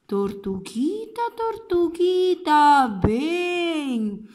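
slow, coaxing stranger voice; luring stranger. Acted. Stranger luring the little turtle, slow and coaxing. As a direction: draw her in slowly and sweetly.

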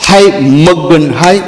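slow, drawn-out hammed-up wail over the dead; mock mourning wail. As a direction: stretch each word like a rehearsed lament. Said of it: "એ લોકો practice કરતા". (નાટકીય ધીમું મરશિયું રુદન)

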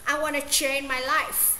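life with the final f clearly sounded; slow, the f of life made audible; final F stressed. Shown as a demonstration. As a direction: land on the f of life. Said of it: "làm nổi bật cái âm".

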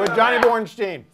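chewing while signing off; name through a mouthful; mouth full. Real, not acted. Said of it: "how chewy the sandwich was gonna be".

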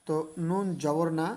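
slow, drawn-out syllables; teacher's spelling drill. Shown as a demonstration. Teacher spelling slowly for students, drawn out. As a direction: spell each letter out slowly for the class. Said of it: "এভাবে".

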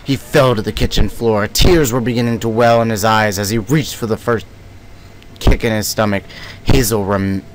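lightly creepy storyteller read; a hint of spooky narration. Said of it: "that's my creepy voice".

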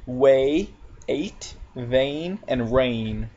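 "Way, ate, vain, and rain" with an ay vowel; A sound examples. Shown as a demonstration. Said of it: "make the A sound".

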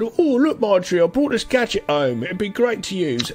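high, boastful mock dad voice; dad showing his wife a new gadget, hammed up; proud eighties dad. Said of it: "went out and said".

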